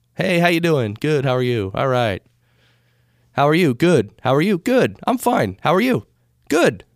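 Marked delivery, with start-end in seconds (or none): none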